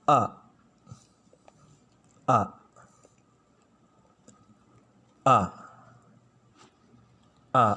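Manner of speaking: "A" sounded cleanly from the throat; teacher demonstrating Arabic alif as "A"; clear letter sound. Shown as a demonstration. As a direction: model the letter "A" clearly for learners. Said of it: "pelafalannya itu harus jelas".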